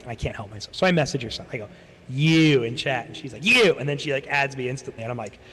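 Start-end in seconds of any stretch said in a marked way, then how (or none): 2.1-2.6 loud mock hail; calling out. Speaker messages an old friend in chat, calling out. 3.4-3.8 high, loud mock squeal; excited echo. Old friend answers the speaker in chat, excited. Her retold echoing reply in chat.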